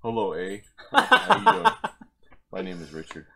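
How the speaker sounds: put-on a lightly done B C accent, with a jump up on the greeting; half-hearted B C accent, mostly in his own voice. Asked by friends to do an accent, tipsy man tries a light B C accent. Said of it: "I can do B C accent".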